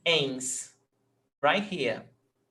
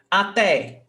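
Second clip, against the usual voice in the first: "até" with the final TÉ punched louder; stress on last syllable; 3 semitones higher, 4 dB louder than usual. Shown as a demonstration. Portuguese teacher shows students the stressed ending, "até" stressed on TÉ. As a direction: lean on the TÉ of "até". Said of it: "The last one is stressed".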